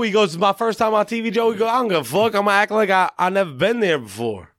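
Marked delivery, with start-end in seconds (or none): 0.4-1.5 higher-pitched mock Southern accent. Singer telling Joe it's his first TV, mock Southern accent. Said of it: "Impersonating him?". 1.7-4.5 mock Southern bravado, pitched up then settling. Singer telling Joe his TV plan, mock Southern accent. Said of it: "Impersonating him?".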